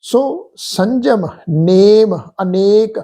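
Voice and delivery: slow measured chanting of verse; scripture recitation. Acted. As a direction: recite each word slowly and devoutly.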